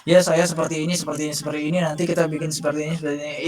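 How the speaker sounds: flat, dull, lifeless pitch with no rise or fall; monotone, going through the motions; boring monotone. Shown as a demonstration. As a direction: sound bored, like reading a list. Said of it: "kayak nadanya biasa aja".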